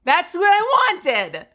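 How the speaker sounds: high, loud squeak that cracks apart; voice cracking. Real, not acted. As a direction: let the voice break on a high yell. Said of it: "my voice truly going for good when I crack".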